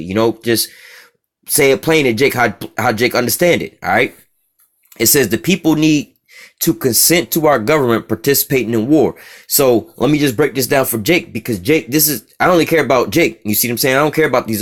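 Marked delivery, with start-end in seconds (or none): 5.3-9.1 slower, deliberate reading with a pause after need; read again slowly. Shown as a demonstration. Preacher rereading the verse slowly to his listeners. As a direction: spell it out word by word. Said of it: "Let me read this again slowly".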